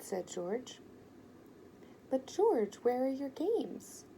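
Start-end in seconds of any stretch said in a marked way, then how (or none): 2.1-4.0 loud, high, slow wonder; surprised again. A narrator's reading. Ben asks about games, slow and amazed. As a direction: stretch out the amazement.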